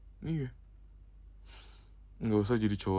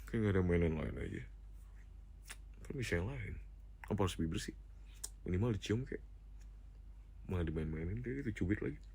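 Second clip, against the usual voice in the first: quiet sulk; 3 semitones lower, 11 dB quieter, faster than usual. Real, not acted. Sulking about lips being pinched.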